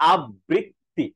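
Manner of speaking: আবৃত্তি slowly as "ab-brit-ti"; imitated mispronunciation. Teacher imitates a common mistake, forced pronunciation. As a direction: double the b and drag আবৃত্তি. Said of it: "অনেকেই বলে".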